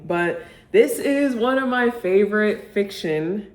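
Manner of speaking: slow, drawn-out "fiction" with a knowing lift; pointed stress on fiction. Shown as a demonstration. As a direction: lean on "fiction" as if it's a wink. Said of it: "I say fiction like that for a reason".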